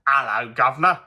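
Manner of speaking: light Cockney greeting; Cockney accent. Shown as a demonstration. Showing off a Cockney greeting, lightly put-on Cockney accent. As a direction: give it a stock Cockney lilt. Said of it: "good with my own and Cockney accents".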